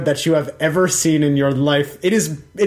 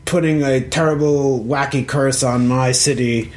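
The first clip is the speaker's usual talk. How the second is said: pronouncing king. Acted. King sentencing Tarshan at the execution, mildly proclamatory. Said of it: "So King Turtlebottom gets up".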